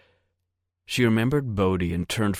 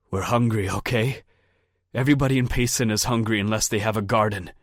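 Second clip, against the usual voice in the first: fast, raised, defensive excuse; defensive snap; 3 semitones higher, 3 dB louder, faster than usual. Acted. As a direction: rush the excuse out, annoyed. Captured man defending himself.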